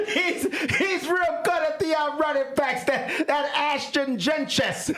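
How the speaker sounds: put-on high, laughing Chicago accent. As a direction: ham up a Chicago fan. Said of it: "the Chicago accent would just ruin his name".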